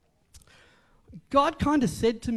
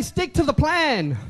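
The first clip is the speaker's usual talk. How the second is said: louder, firm declaration; proper call; 2 semitones higher, 4 dB louder, slower than usual. Shown as a demonstration. Preacher showing the congregation how, firm and louder. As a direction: say it with conviction.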